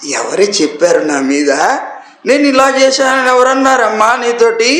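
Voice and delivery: put-on coaxing like a spoiled child, partly laughing; a pet child wheedling his mother with a giggle; pampered coaxing. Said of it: "గారాబం పోతూ అడిగాడు". (గారాబంగా, నవ్వుతూ బుజ్జగించే పిల్లవాడి గొంతు)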